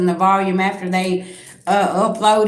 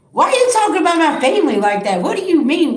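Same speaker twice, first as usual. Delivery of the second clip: offended protest; 8 semitones higher, 3 dB louder, faster than usual. Retold or imitated. Retelling own offended reply.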